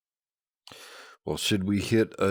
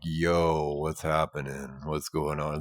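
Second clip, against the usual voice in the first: deep voice; 3 semitones lower, slower than usual. Shown as a demonstration. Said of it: "he had a low voice like me".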